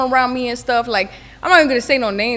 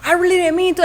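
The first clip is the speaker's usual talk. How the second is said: sheepish apology; 6 semitones higher than usual. Retold or imitated. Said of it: "he's just like".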